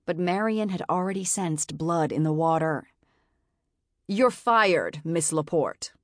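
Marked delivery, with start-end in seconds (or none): 4.1-5.9 cold, commanding and final; terrifying authoritative voice. Acted. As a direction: fire her with icy authority. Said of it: "terrifying, authoritative voice".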